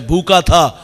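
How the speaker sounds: slow, low, moved recital of blessings; slow, hushed, emotional child's boast; proud orphan. Retold or imitated. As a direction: let each loss turn into pride, slowly. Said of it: "فخر سے کہتا ہے".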